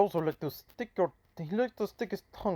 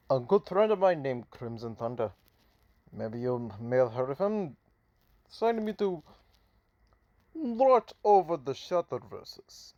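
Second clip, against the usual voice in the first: light, stereotypical put-on Russian accent; a hint of a Russian accent, spitballing a hero's monologue; Shutter's Russian accent. Mysterious hero introduces himself to viewers, mild Russian accent. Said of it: "My Russian accent for maybe the Russian character".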